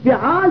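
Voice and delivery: فعال said fi'āl, short i after the f; kasra on the fā'. Shown as a demonstration. Teacher specifies the pattern for students, فعال as fi'āl. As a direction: say فعال with an i in the first syllable. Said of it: "بكسر الفاء".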